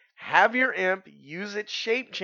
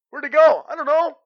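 baffled guards; 10 semitones higher, 11 dB louder than usual. Pretend.

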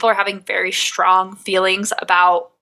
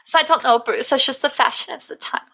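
put-on high German-accented grandma, softening at the end; 5 semitones higher than usual. Host imitating grandma on women in pants, German accent. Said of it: "and she'll be like".

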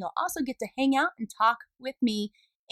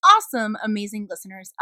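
excited; 5 dB louder than usual. Acted. Enthusiastic praise of listeners.

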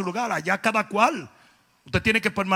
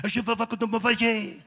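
French guard. Retold or imitated. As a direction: play a French guard in fake French. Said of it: "un guardia francés y dice". (guardia francés en francés inventado)

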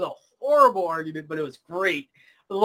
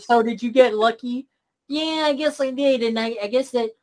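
nerd brother imitation; 4 semitones higher than usual. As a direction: play a sheepish nerd, pitched up. Acts out nerd brother in kitchen.

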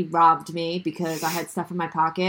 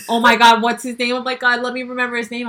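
mock panic; 3 semitones higher, 5 dB louder, faster than usual. Acted panic at forgetting his name.

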